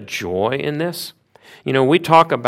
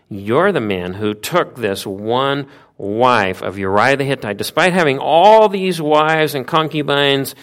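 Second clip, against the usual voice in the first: building rebuke; 3 semitones higher, 4 dB louder than usual. Retold or imitated.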